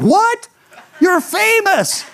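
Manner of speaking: put-on high, wide-eyed kid voice, slowing at the end; amazed child. Boy amazed his pastor is on TV, high gasp then awe. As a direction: mimic a stunned little boy.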